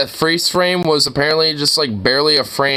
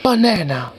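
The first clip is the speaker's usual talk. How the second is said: mimicking video woman; 3 semitones higher than usual. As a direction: parrot the woman in the clip. Mimics woman in played clip.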